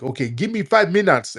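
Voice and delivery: high, loud mock excuse; exaggerated high-pitched imitation; mocking stalling guests. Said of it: "They be like".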